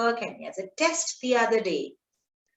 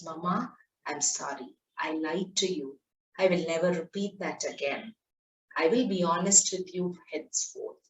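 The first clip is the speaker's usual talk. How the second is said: put-on sorry child; 4 semitones lower, 5 dB quieter than usual. Boy apologising to mother.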